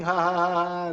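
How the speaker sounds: a light imitated ha ha ha; mock laugh. Teacher imitates a happy crowd laughing, light mock laugh. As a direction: toss off a quick fake laugh. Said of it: "If everybody is laughing".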